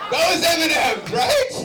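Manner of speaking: slow, loud, high shout of the punchline. Real, not acted. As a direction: hammer the joke home.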